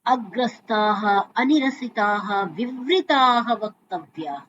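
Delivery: measured Vedic recital; Sanskrit verse recitation. Acted. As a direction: chant the shloka in a steady measured recital.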